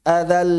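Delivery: "Adal" with a moderately held final l; half-flowing l. Shown as a demonstration. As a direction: carry the last l of "Adal" briefly. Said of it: "Setengah ngalir kan?".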